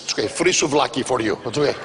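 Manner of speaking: lightly voiced vendor slipping a freebie; sly vendor. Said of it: "They wanna make sure it's a secret".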